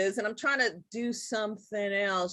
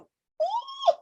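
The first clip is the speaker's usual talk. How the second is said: pleased ooh. Real, not acted. Delighted at the save feature.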